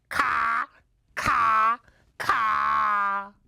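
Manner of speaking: loud, full-voiced caws; crow greeting. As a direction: call out a proud crow's morning greeting. Father crow's morning love greeting.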